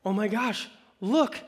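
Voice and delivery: high, slow, amazed mock gasp; breathless small-town gossip voice; gossiping town women. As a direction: play the stunned townswomen recognizing her. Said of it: "the women of the town are like".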